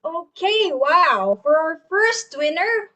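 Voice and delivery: excited reveal of a raffle winner; hyped giveaway announcement. Real, not acted. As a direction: build it up like a game-show host.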